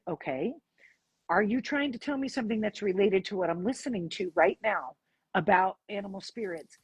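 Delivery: unemotional, measured questioning; matter-of-fact. Retold or imitated. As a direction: question the dog straight, keeping emotion out. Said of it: "matter of fact".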